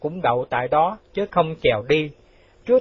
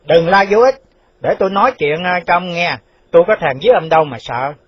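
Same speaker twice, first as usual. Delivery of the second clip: firm reassurance, dismissive; 3 semitones higher, 5 dB louder than usual. Acted. Hushing the shouting official.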